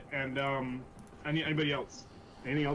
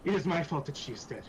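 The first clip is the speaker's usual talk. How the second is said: halting, repeated self-blame; flustered guilt. Acted. Iku blames herself for the death, flustered and guilty. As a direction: stumble through an acted confession, mildly raised. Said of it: "she seems absolutely just flustered".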